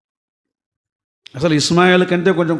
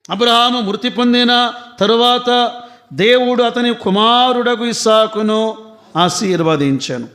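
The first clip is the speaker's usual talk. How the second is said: ordinary talk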